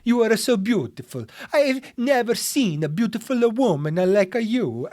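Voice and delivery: lightly put-on Italian accent, crooning; a rusty Italian accent, flattering her. A creepy Italian guy flattering a woman in a mild Italian accent. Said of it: "since I've done an Italian accent".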